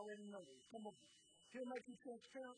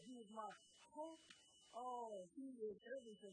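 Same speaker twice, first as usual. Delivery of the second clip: building preaching. Acted. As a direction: stretch each name out like a proclamation.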